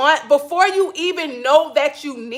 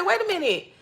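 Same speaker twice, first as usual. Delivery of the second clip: high, soft appalled wait a minute; mock-offended, stop short; 5 semitones higher, 6 dB quieter than usual. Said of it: "kinda like appalled a little bit".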